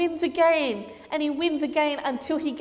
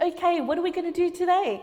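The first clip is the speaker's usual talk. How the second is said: put-on eager boy; 6 semitones higher, 3 dB louder, faster than usual. Eager boy asking teacher.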